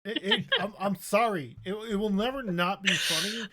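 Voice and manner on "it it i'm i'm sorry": giggling through an apology; laughing while talking. Real, not acted. Laughing at friend again.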